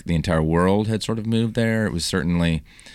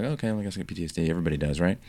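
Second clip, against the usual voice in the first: quick, softer, offhand self-quote; casual shrug; 6 dB quieter, much faster than usual. Retold or imitated. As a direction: toss it off lightly, fast and hushed. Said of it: "just casually".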